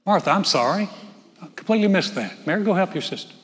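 preacher mocks what Jesus did not say to Martha; mock apology. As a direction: play a flustered, over-apologetic Lord. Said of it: "Jesus didn't go".

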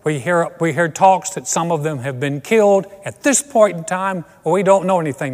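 mock on-the-scene news report; a hint of a serious TV correspondent; TV news reporter. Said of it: "some guy standing there going".

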